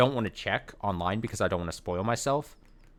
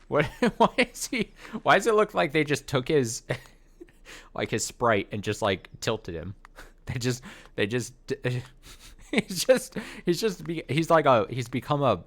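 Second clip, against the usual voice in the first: higher, louder words breaking into giggles; laughing in disbelief; 6 semitones higher, 5 dB louder than usual. Real, not acted. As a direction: crack up while trying to finish the sentence. Cracking up at screen sprite.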